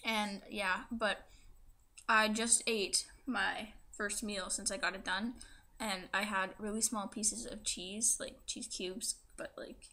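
speaking with a fresh tongue piercing. Real, not acted. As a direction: talk around a swollen pierced tongue. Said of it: "this is gonna be my tongue piercing video".

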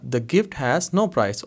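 very slow, word by word; slow teaching read. Shown as a demonstration. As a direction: spell it out slowly for the class. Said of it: "slow translation for learners". (बहुत धीरे पढ़ाते हुए)

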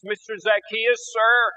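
weeping plea. Acted. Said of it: "She begins to weep and declares".

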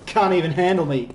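gloating. Real, not acted. Gloating after kill.

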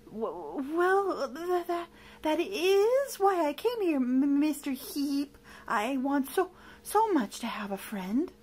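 high stammer settling toward earnest pleading; stumble, then plead sincerely; nervous stammer. Acted. Monster explaining to villain, nervous stammer. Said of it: "Lamont stammered".

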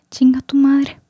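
cheeky swear at an imagined guy; mock insult. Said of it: "no debería haber dicho eso".

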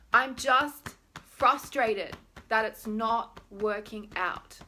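loud, slow, emphatic complaint; deliberate venting; acted frustration. Shown as a demonstration. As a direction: punch out each word in mock frustration.

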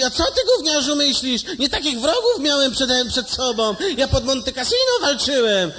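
put-on high, loud old veteran yelling; angry grandpa shout. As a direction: bellow like an offended old soldier. (wzburzony dziadek, wysoko i głośno krzyczy)

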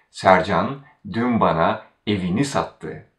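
evini made the focus before sattı; stress on evini. Shown as a demonstration. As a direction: put the weight on evini. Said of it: "the constituent right before the verb evini has".

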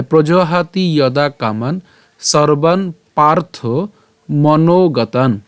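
"প্রজহাতি ইয়দা কামান" and "সর্বান পার্থ মনোগতান" in slow separate phrases; slow model pronunciation. Shown as a demonstration. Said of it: "এরপর একই রকমভাবে". ("কামান", "সর্বান", "মনোগতান" ধীরে, শেষে হসন্ত ন)

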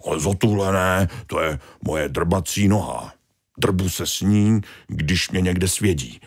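lightly voiced objecting starfish; a mild fussy protest; protesting Tony. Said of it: "protestoval Tony". (mírný protest Tonyho)

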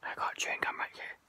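loud whisper into the phone; stage whisper. Real, not acted. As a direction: whisper loudly, half-voiced. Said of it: "whispering very loudly towards my phone".

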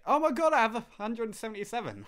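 light mocking impression; mock commenter. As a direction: parody a gushing fan.

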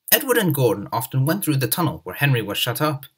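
ordinary delivery, nothing marked

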